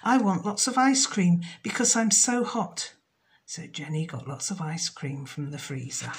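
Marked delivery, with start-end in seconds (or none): 0.0-2.9 a hint of a hot, bothered dragon; lightly voiced dragon. The dragon orders ice cream from Jenny, lightly voiced. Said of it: "said the dragon".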